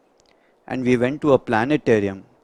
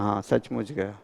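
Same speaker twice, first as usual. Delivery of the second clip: doctor's answer; 4 semitones lower, 8 dB quieter, much faster than usual. Retold or imitated. Doctor confirms death.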